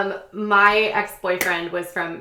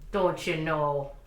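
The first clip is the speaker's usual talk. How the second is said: slow, lower, hammed-up Midwestern accent; exaggerated Midwestern accent; 4 semitones lower, 3 dB quieter, slower than usual. Capping the potluck talk, exaggerated Midwestern accent. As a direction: draw it out in broad Midwestern. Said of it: "I'm just exaggerating".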